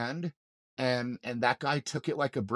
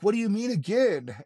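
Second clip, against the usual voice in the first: higher, louder retold question; incredulous; 8 semitones higher, 5 dB louder than usual. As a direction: throw the question back in disbelief. Retold shock at rescuers' remark.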